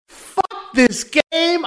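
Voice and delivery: drawn-out slow gamer rage; hammed-up slow angry complaint; mock outrage. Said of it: "the speaker's fake outrage".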